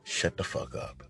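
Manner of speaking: low voiceless shut the fuck up; whispered cussing. Retold or imitated. Telling the woman off in a whisper. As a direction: hiss it through the dark. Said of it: "I was like".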